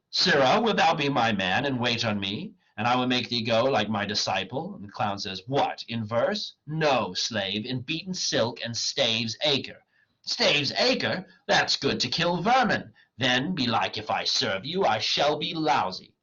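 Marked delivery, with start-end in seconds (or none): 0.1-4.8 theatrical comic dialogue; dramatic play reading. Acted. Wagner mocks the poor clown, declaimed. 5.5-16.1 theatrical comic dialogue; dramatic play reading. Acted. Wagner mocks the poor clown, declaimed.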